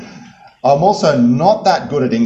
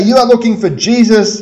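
proclaiming angel; 9 semitones higher, 6 dB louder than usual. Acted. Angel speaks to the women.

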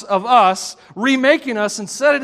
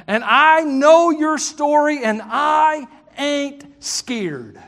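Southern; 3 semitones higher, much slower than usual. Retold or imitated. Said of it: "That's Southern for".

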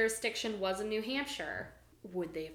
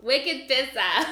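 laughing; 5 semitones higher, 10 dB louder, slower than usual. Real, not acted. Co-host laughs while echoing the Maine phrase. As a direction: echo the phrase through a laugh.

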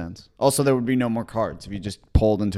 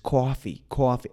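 New York accent. Shown as a demonstration. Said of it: "Do I say coffee like that?".

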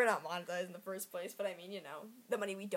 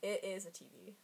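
soft whisper of the answer; whispered reveal; 7 dB quieter than usual. Real, not acted. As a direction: let the secret out in a whisper.

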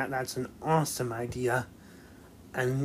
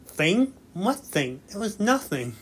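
flustered denial; 7 semitones higher than usual. Retold or imitated. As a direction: caught out, brushing it off. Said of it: "She's like".

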